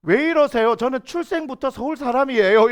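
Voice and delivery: put-on Busan native faking a Seoul accent. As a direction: protest in a lightly affected Seoul accent. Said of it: "부산 말투 맞는데? ... 그 연기를 하고 있는 거예요".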